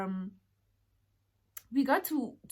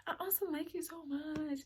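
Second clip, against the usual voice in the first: put-on drunk gushing; 8 semitones higher than usual. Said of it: "I'm drunk, guys".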